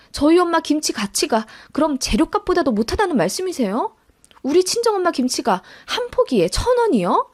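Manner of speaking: high-pitched affronted questioning; offended daughter defending her mother; indignant disbelief. Acted. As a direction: challenge the insult, pitch climbing. Acted quarrel over mother's kimchi.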